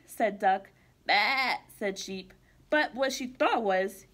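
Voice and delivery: put-on lively storybook read-aloud for kids; reading to children. Teacher reading a picture book to kids, bright and lively. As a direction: read it like circle time with little ones.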